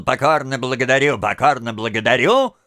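fast, lightly mocked nasal "Покорно благодарю"; a hint of nasal mockery; nasal twang. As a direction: rattle off the freak's whiny thanks. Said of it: "малыш всё ещё гнусавил".

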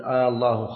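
"آه الله" opened with a long "aa"; drawn-out hamza. Shown as a demonstration. Teacher quoting a verse as example, opening hamza held long. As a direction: lengthen the first vowel of "آه الله" as in a question. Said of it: "أن لا يمد الهمزة".

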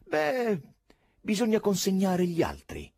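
high-pitched, sugary politeness; sweetly insistent. A narrator's reading. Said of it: "aggiunse con la stessa dolcezza".

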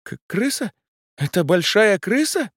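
very high stammered panic; terrified shriek. A narrator's reading. The client shrieks at the giant rodent, terrified. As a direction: shriek in horror at the rat.

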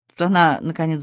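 ordinary delivery

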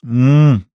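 muffled hum through a covered mouth; muffled mumble. Acted. Man mumbling through her hands over his mouth, muffled hum. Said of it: "пробубнил он из-под её плотно сжатых рук".

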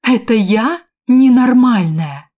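high, loud, slow indignant yell; outraged shout. A narrator's reading. Woman shouting at Valker, outraged and loud. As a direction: scream the question back at him. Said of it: "закричала она".

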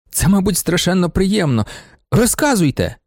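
put-on a young man begging for the balloon story, insistent; insistent urging. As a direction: press him eagerly, won't let go. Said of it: "настирливо допитувався він".

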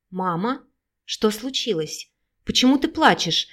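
worried daughter asking; anxious, a little pleading; встревоженно. Acted. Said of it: "обеспокоенно спросила Вика". (взволнованный вопрос дочери)

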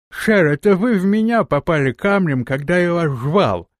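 beaten man speaking with effort; strained speech. Acted. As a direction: force the words out through split lips. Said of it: "с трудом проговорил Эрзай".

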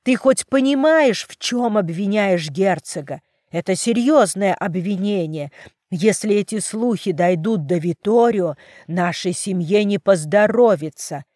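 loud angry warning; furious. Acted. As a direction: threaten her into silence. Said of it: "Отец обрушился на дочь с яростью". (отец гневно предупреждает дочь)

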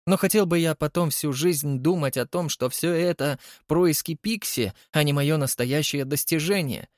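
heightened theatrical Holly voice; a vain artist musing aloud; Holly, dramatic. Acted. Holly's long monologue. (капризный художник Холли)

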